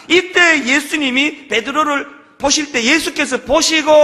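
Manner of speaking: slow, emphatic reading of 보시고; stressed 보시고. Shown as a demonstration. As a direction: dwell on 보시고 slowly. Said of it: "그때의 원어가 바로 엠블레포".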